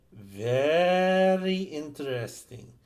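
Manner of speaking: slow, drawn-out comic catchphrase voice; Artie Johnson impression. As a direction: stretch out very interesting like a sketch comic. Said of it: "his signature line".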